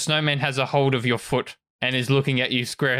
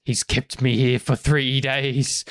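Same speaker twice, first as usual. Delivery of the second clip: aggrieved snowman. Acted. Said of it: "the snowman just looks at you and says".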